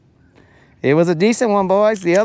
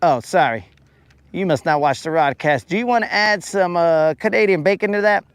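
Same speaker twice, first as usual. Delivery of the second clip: higher, mock-cheery waiter pitch; 4 semitones higher than usual. Waiter upselling Canadian bacon to a customer, chipper. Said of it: "I was like".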